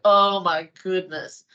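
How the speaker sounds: slow, drawn-out shock; mock dismay. Woman seeing her side view in the mirror, dismayed. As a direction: stretch it out in comic horror. Turns sideways, dismayed at reflection.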